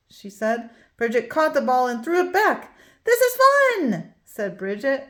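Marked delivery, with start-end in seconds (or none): 3.0-4.1 gleeful. A narrator's reading. Bridget playing catch happily.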